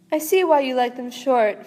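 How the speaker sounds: a lightly swooping, theatrical star voice, a hint of Snape; swoopy star voice. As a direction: sweep through the words like a vast gentle star. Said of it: "it gets the swoopy voice".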